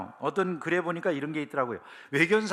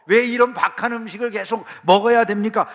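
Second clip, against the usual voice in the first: loud, higher-pitched protest; acted complaining; 5 semitones higher, 7 dB louder than usual. Israelites remembering food in Egypt, loudly complaining. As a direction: imitate indignant grumblers, pushing louder and higher. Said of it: "이러면서 불평한다는 거죠".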